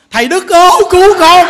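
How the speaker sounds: high, loud mock plea; acted cry for help. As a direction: call out for rescue, imitating a desperate follower. Retold woman's desperate plea for rescue. (giả giọng kêu cứu thật to)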